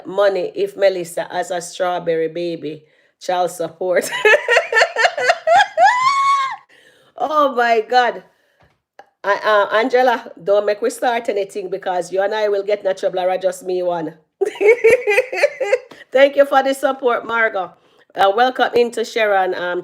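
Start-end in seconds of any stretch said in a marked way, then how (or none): 4.1-6.5 high shrieking laugh at her own joke. Real, not acted. Laughs at strawberry baby joke. 14.4-15.8 laughter. Real, not acted. Laughs after teasing Angela.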